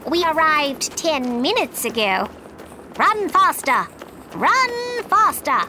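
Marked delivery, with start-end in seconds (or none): 3.0-3.9 urging on. Acted. Queen urging Alice on. 4.3-5.6 urging on. Acted. Queen urging, repeated more.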